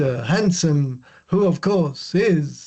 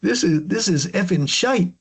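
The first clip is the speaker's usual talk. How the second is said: put-on Scottish accent. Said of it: "try my Scottish accent".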